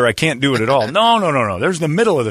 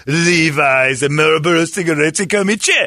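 raised mock Asian accent; imitated Asian accent; 5 semitones higher, 4 dB louder than usual. Golfer showing off his outfit, mock Asian accent.

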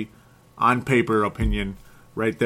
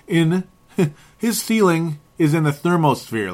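laughing; 5 semitones higher, 3 dB louder than usual. Real, not acted. Laughing while hyping player.

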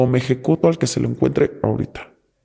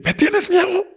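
taunting captor. Retold or imitated. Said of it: "Y le dice".

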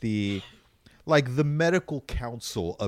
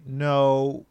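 louder, slow mock correction; exasperated official; 3 semitones higher, 6 dB louder, slower than usual. White House correcting a rapper, slow and exasperated. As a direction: spell it out like a fed-up press office. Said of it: "White House had to come out and say".

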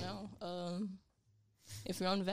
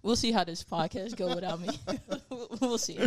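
laughing; 5 dB louder than usual. Real, not acted. Joking threat to quit show.

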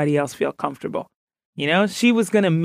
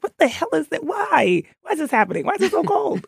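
high, incredulous mock outcry; retold shock at snow; 11 semitones higher than usual. Girl from Ghana shocked by Colorado snow, high mock outcry. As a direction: play the kid stunned by snow, pitched way up. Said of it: "I was like".

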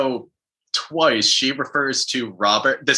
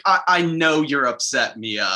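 higher-pitched mock condescension; Lissa, patronizing; 3 semitones higher than usual. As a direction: imitate someone talking down to a friend. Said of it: "how patronizing Lissa was being".

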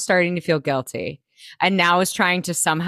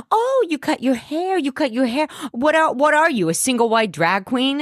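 high, catty mock voice, pitched well up; a high, bitchy impression of a reality star; 7 semitones higher than usual. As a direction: sneer it out like a catty housewife. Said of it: "she's like".

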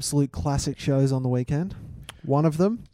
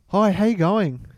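playing a character; 5 semitones higher than usual. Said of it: "Oh, sorry, I'm Caroline".

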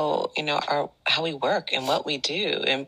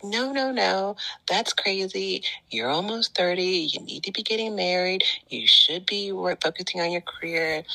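lightly voiced parents, pitched higher; disapproving parents; 4 semitones higher than usual. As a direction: imitate parents talking you out of it. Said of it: "my parents were like".

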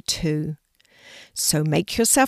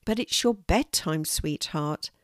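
gently. Acted. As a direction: soothe him kindly. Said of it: "Mum said gently".

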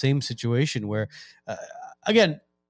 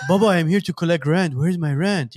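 imitated Persian rent collector; Persian accent; 3 semitones higher than usual. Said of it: "this Persian guy going to collect".

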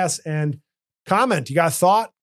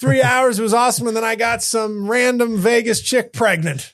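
excited; 6 semitones higher than usual. Pretend. Acts out excited Vegas report to Mike.

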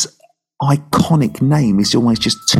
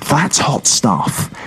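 long groaned "Oh", then slow relish; savouring delight; much slower than usual. Real, not acted. Co-host reacting to drawing Badlands, savouring delight. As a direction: draw it out, savouring the pick. Relishing the film he has drawn.

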